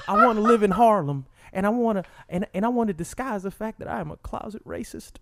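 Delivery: a lightly voiced Clinton confessing; Bill Clinton impression. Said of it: "making my impersonation".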